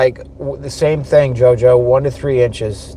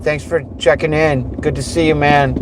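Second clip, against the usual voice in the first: calling out; 4 semitones higher than usual. Real, not acted. Calling out to passing friend.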